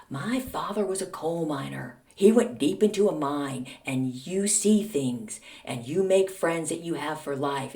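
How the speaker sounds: light, measured Southern lilt; Southern accent. Retold or imitated. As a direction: imitate mom's slight Southern accent. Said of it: "little lilt of a Southern accent".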